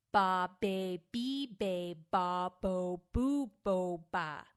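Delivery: loud, overemphasized B syllables; vocal warm-up syllables. Shown as a demonstration. Actor demonstrating the B round of her warm-up, loud and overemphasized. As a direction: pop each B hard with wide-open vowels. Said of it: "Then I'll go to B".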